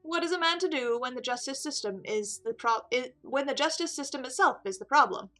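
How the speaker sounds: lightly voiced, disillusioned prisoner. Prisoner explaining why police are useless, disillusioned. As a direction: argue it earnestly, with rhetorical weight. Game character Juan, voiced.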